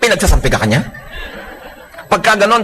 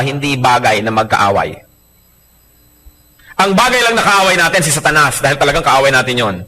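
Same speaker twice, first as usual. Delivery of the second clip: ordinary talk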